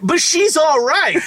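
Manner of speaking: squeaky drawn-out aside; high, slow mock voice. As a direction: pitch it way up, slowly.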